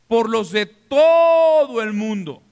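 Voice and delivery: slow, loud, drawn-out proclamation; preaching shout. Real, not acted. Preacher proclaiming the verse to the congregation, loud and slow. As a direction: cry it out to the whole church.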